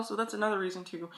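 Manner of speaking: ordinary delivery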